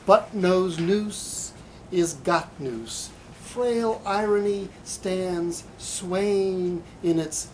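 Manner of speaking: slow, measured poem recital with rising emphasis; poetry reading. Acted. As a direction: savor each line like a recital. Reads his own poem aloud.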